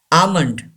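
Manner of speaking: almond as "AH-mund"; almond, drawn "ah", then "mund"; silent L, long A. Shown as a demonstration. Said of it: "Don't pronounce L".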